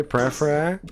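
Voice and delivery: questioning French try at "Per, eh, fair, eh"; attempted French. Shown as a demonstration. Learner told they had it right, attempted French. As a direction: repeat "Per, eh, fair, eh" to check it. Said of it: "You said it right the first time?".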